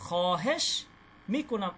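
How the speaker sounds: খহেশ মিকুনাম with the waw not pronounced, মিকুনাম as mi-ku-nam; silent waw. Shown as a demonstration. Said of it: "এই ওয়াও এর উচ্চারণটা হবে না". (খহেশ মিকুনাম, ওয়াও উচ্চারণ না করে)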